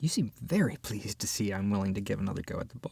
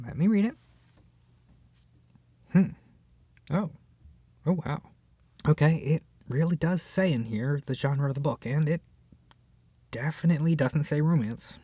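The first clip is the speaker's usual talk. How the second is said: normal talking voice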